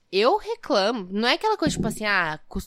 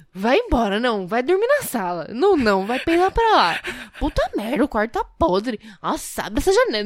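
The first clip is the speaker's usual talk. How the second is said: mock indignant complaint; 3 semitones higher than usual. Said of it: "eu falava assim".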